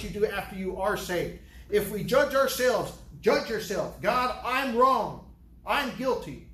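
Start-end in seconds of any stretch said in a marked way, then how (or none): 4.0-6.5 earnest confession. Acted. Voicing a confessing believer.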